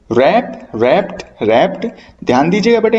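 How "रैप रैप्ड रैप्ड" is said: "रैप, रैप्ड, रैप्ड" starting straight on the R; "रैप, रैप्ड, रैप्ड" as a drill, W left silent. Shown as a demonstration. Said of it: "डब्ल्यू है वो silent रहा करता है".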